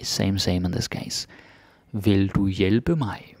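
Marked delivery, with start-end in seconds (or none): 1.9-3.3 slow. Shown as a demonstration. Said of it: "because I say it fast".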